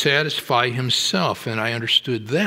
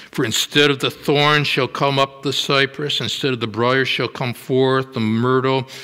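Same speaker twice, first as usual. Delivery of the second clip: raised, ringing scripture reading; preaching scripture. Acted. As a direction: proclaim the verse to the whole room. Reads Isaiah passage aloud.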